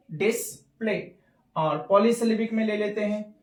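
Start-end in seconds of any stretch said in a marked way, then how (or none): 0.1-1.1 डिस्प्ले said whole, a little slowly; joined word. Shown as a demonstration. Teacher joining the syllables, slow डिस्प्ले. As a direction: blend the parts into डिस्प्ले. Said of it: "तो क्या आ रहा है?".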